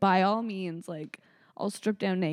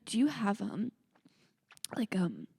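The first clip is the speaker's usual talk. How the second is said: halting, hushed imitation of nervous tech; soft, hesitant mock question; scared to ask; 6 dB quieter than usual. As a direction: stall awkwardly between words. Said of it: "so scared to ask you that".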